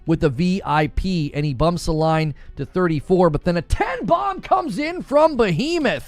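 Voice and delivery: announcer-style read of the gift tally; to-do list voice. Acted. Streamer reading out gifted memberships, in a list-reading voice. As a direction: rattle off the donation count like reading a list. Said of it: "that's also the voice I use when I read my to-do list".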